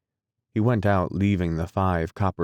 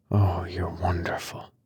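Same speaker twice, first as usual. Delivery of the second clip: lover's whisper. Acted. Lovers alone in hospital room.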